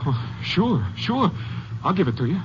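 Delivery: rising, rattled voice pleading for his life; frightened pleading. Acted. Driver pleads with armed hitchhiker, frightened and high. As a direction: stammer out a scared promise to a man with a gun. Gunman demands money at gunpoint.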